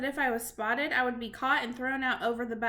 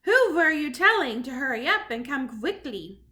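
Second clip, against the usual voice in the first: loud witch; 7 dB louder than usual. Acted. Witch demands from balcony.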